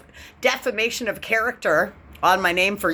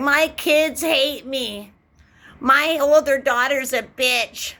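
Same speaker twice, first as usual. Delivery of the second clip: whiny mock; 6 semitones higher, slower than usual. Mocking self-pitying complaints.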